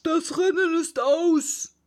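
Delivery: loud, high, slow Dodo announcement; sudden call. A narrator's reading. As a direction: call it out slowly to the whole crowd. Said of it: "rief der Dodo plötzlich".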